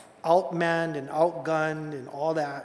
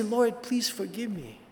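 humble prayer. Retold or imitated. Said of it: "And I say".

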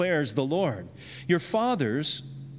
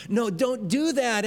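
parent yelling; 6 semitones higher than usual. Acted. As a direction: cry out to stop a child touching the socket. Parent stops child at light socket.

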